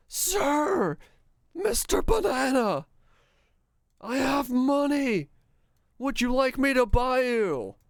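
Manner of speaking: very high, hammed-up calling voice; squeaky pleading shout at a banana; mock yelling at bananas. Playing a shopper yelling at a banana, hammed-up high calling voice. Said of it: "yell at every banana".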